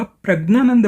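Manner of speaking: प्रज्ञानंद with hard g before n; southern pronunciation. Shown as a demonstration. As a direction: say प्रज्ञानंद as "prag-naanand". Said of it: "प्रज्ञानंद बोलेंगे".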